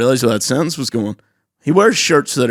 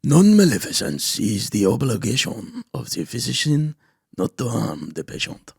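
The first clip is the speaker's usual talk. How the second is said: imitating narrator; 4 dB quieter than usual. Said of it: "Patreon episode in those accents".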